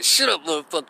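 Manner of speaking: imitating a man hushing through his teeth; contained mock anger, teeth together. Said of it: "talking through his teeth".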